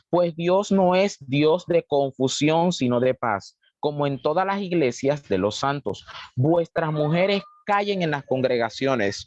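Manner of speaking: slow, deliberate reading aloud; scripture reading. Acted. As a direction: read the verse out slowly to the congregation. Reads scripture aloud to congregation. (lectura pausada de la Biblia)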